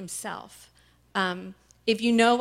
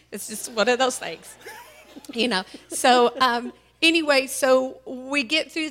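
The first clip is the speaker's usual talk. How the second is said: crying; 4 semitones higher, 6 dB louder than usual. Real, not acted. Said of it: "sorry, I cry ugly".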